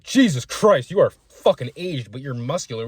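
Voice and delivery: high, loud astonished exclaim; floored by his age; shocked inner thought. Retold or imitated. Thinking about the aged forty-five-year-old, high and shocked. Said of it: "In my head, I'm like".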